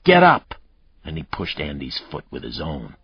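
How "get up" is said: loud, high barked command; harsh shout. Acted. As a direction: bark it like a brute. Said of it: "he said harshly".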